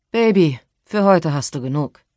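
loud, showy firmness. Acted. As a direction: say it loud for the passers-by. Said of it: "sagte er laut". (laut und bestimmt)

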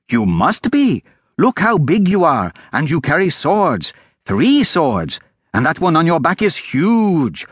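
high, insistent lad full of awe; eager street boy. Acted.

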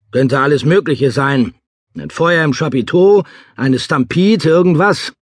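high, urgent listing of dangers; agitated alarm. Acted. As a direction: voice climbing as the worries pile up. Guessing at the disaster in alarm.

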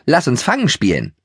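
a little pony squeaking an invitation to play; squeaky pony. Acted. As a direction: squeak it out to start a game. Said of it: "quietschte Keks".

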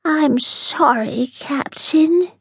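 high, slow, sorry alien voice; sad apology. Acted. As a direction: Yargle apologizing to the captain sadly. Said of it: "said Yargle sadly".

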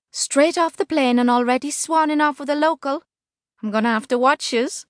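put-on high, shrieking Liverpool accent; Scouse woman calling out over a crowd. A narrator's reading. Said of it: "a Liverpudlian shriek".

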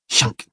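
short imitated clatter of a tray; tray sound. A narrator's reading. Narrator imitates the new tray sliding in, clattering noise. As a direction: voice a tray skidding over stone. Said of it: "machte das neue Tablett".

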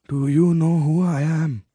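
a queen demanding her birthright; proud queen mother. Acted. Satya, the queen, presses her son to reclaim the throne.

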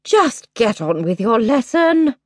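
slow, tired and resigned; a mother giving up; weary sigh. Acted. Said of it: "sighed the Queen".

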